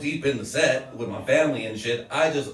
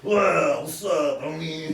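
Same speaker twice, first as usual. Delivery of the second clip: Paul Blart; 2 semitones higher, slower than usual. Acted. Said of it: "I do the Paul Blart".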